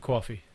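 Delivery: "coffee" with a rounded "aw" vowel; local pronunciation of coffee. Shown as a demonstration. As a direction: say "coffee" as "cawfee". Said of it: "How do you say it?".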